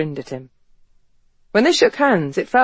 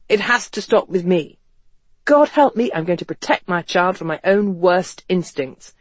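The speaker relaying a resolute vow. Acted. The speaker repeating Devon's vow to protect his son, resolute. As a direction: vow it with feeling, leaning on key words.

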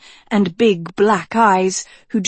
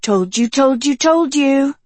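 jolly witch huffing, rising higher; 6 semitones higher than usual. A narrator's reading. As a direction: huff it gleefully, climbing. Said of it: "huffed the jolly witch".

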